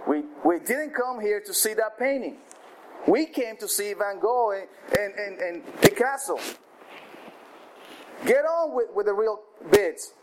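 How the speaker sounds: a hint of an annoyed collector, high; angry shout. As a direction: snap at the auctioneer to move on. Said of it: "Another voice shouted angrily".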